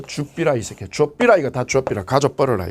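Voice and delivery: rough Gyeongsang dialect telling him to take it all. Retold or imitated. Extortionist forcing the gift in Gyeongsang dialect. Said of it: "이 경상도 말로".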